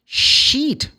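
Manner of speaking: "Sheet" high and loud with a long EE; emphatic sheet. Shown as a demonstration. Teacher corrects the word to "Sheet". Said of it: "She wanna say sheet".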